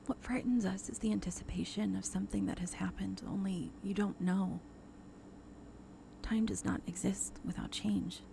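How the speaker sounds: hushed unvoiced whisper. Cat whispers to Tess, eerie whisper. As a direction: breathe the words out in a whisper.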